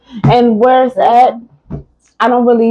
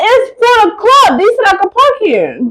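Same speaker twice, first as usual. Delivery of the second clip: retold pleading; 10 semitones higher than usual. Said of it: "I said".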